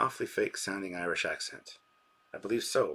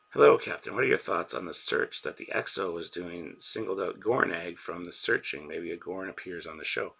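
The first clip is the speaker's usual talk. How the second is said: loud re-read; 5 dB louder than usual. Shown as a demonstration. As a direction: belt the greeting out for the chat. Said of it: "re-reads the chat message".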